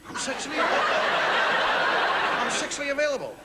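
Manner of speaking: hammed-up sultry offer; drawn-out mock come-on. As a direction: stretch it out like a ham seduction. Voicing body language message again.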